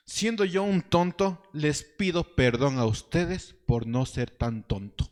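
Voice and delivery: slow, mock-humble irony; ironic. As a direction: apologize slowly, tongue in cheek. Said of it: "Y Pablo, de manera irónica". (disculpa irónica y lenta)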